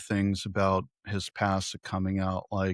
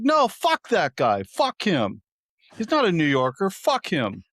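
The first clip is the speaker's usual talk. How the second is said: high, louder emphatic outburst, dropping on the last words; insistent dismissal; 7 semitones higher, 4 dB louder than usual. Retold or imitated. Cab driver insisting to agreeing passenger, heated mock outburst. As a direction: imitate the driver doubling down. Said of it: "guy driving's Russian".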